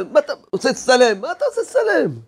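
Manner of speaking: imitated irritated protest, rising high on the repeat; mock anger. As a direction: act out an annoyed objection, pitch climbing. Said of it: "כל כך כועס".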